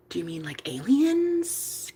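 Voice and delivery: near-whispered, tentative; barely voiced lead-in; hushed question. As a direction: ask it very softly, cautiously.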